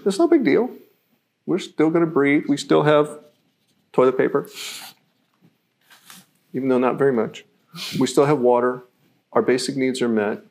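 calm, reassuring. Shown as a demonstration. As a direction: shrug it off kindly. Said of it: "In the first version".

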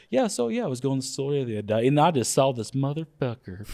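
lightly hammed-up Southern accent; thick southern accent. Shown as a demonstration. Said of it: "my accent gets really thick".

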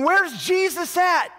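high, loud, slow call from up a tree; eager searching. Acted. Zacchaeus in the tree looking for Jesus, high and loud. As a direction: crane your neck and call out, looking for him.

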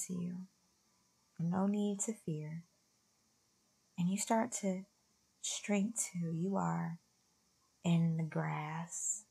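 softly paced, soothing meditation voice; guided meditation. Real, not acted. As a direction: guide listeners gently inward, leaving long pauses.

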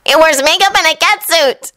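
high-voiced deadpan; flat. A narrator's reading. Naruto judges Kankuro, mildly deadpan. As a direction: state it as obvious. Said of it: "Naruto said flatly".

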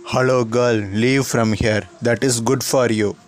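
put-on sneering, dismissive bully boy; schoolboy bully. The speaker voicing the bully taunting the new girl, sneering. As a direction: brush her off like a smug bully.

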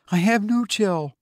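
high, curt retort; sharp. Acted. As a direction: snap it back high. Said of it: "she replied sharply".

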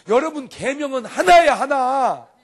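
emphatic preaching shout. Real, not acted. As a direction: shout it out to the congregation. Preacher stressing one commandment.

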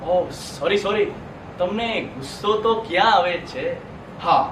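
low, soft sarcastic sorry; quietly needling apology; mock apology. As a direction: back off with feigned regret. Mock apology to a passive audience.

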